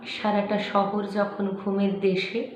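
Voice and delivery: slow, measured dramatic recitation with long pauses; expressive verse reading, unhurried; poetry recitation. Acted. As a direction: recite it like a story-poem, weighting each phrase. Recites a poem.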